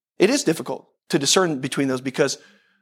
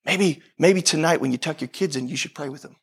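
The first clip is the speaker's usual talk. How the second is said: gentle nudge; 2 semitones lower than usual. Acted. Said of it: "it says".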